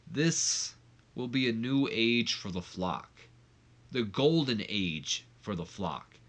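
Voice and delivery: slow, deliberate villain speech; Raven's speech. Retold or imitated. Raven addressing his Flock, slow and menacing. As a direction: pause for menace between words. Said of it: "he says".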